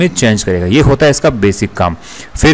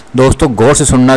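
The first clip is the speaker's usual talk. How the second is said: ordinary talk, nothing marked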